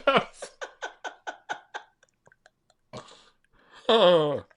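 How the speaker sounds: apologising through high helpless laughter; laughing apology. Real, not acted. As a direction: squeeze out sorry while cracking up. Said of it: "can't even finish the demo".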